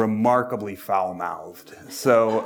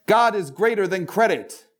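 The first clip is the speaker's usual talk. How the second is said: much higher, loud fervent cry; shouted battle cry; 11 semitones higher, 3 dB louder than usual. Acted. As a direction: yell it like a zealot.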